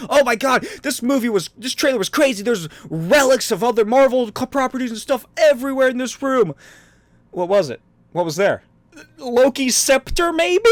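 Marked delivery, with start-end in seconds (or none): 0.1-6.5 high, loud fake hype; mock gushing. Podcaster mimicking people raving about a trailer, mock gushing. 9.2-10.7 slow, high squeaky question; hammed-up doubt climbing very high at the end; mock uncertainty. Podcaster puncturing the imagined hype about relics, mock uncertainty.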